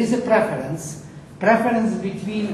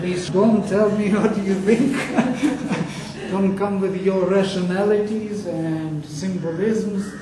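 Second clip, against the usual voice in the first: laughing; 2 semitones higher, 4 dB louder than usual. Real, not acted. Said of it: "laughing mock protest to class".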